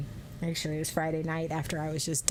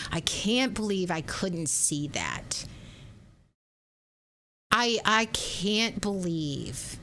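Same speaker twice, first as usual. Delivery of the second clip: disgusted with herself; slower than usual. Retold or imitated. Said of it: "that disgust of going".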